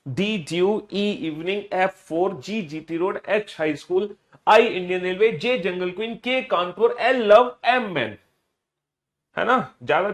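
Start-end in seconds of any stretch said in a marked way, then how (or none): 0.1-8.2 rhythmic classroom chant, pairs lifting at the end; read-aloud drill. Shown as a demonstration. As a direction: recite the list briskly in sing-song pairs. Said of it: "जोर जोर से बोल के पढ़ना है".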